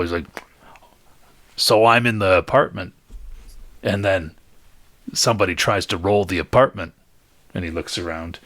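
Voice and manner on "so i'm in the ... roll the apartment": talking through a mouthful of meat; words round a big bite; mouth full. Acted. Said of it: "he's got a mouthful".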